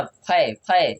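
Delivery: फै repeated alone with a wide AE; sounded-out syllable. Shown as a demonstration. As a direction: break off फै before the n. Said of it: "ए का उच्चारण किस में हो रहा है". ("फै" को अलग करके दोहराएँ)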